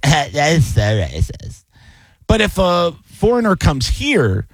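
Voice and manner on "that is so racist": slow, lightly mocked white-girl complaint; a hint of an offended girl, drawn out. Host imagining a girl objecting to his accent, lightly voiced white girl. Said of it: "a white girl, she's gonna be like".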